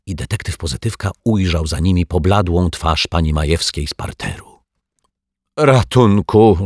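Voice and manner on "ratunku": slow, drawn-out moan for help. A narrator's reading. Neighbour moans for help at the detective's door. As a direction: groan the cry like she's in pain. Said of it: "jęknęła pani Majewska".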